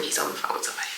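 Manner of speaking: low, half-whispered aside; whispering. Real, not acted. Vlogger signing off while someone is on the phone, whispering. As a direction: keep your voice down, almost no tone. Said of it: "that's why I'm whispering".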